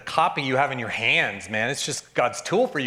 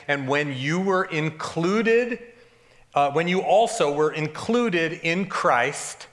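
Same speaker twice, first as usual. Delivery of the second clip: very slow, deliberate reading; scripture reading; much slower than usual. Acted. Pastor rereading verse thirteen, very slow and deliberate. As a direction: draw out each word of the verse.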